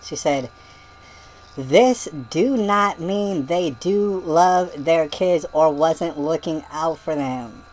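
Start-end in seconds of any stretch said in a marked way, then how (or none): 1.6-7.6 slow mock yell. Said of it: "And she yelled it".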